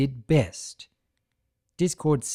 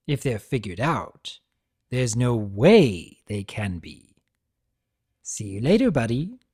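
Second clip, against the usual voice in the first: lightly raised, lively trickster lecturing a prisoner; Discord voice; 4 dB louder than usual. Acted. Discord chiding Tirek for abandoning his brother, lightly voiced trickster.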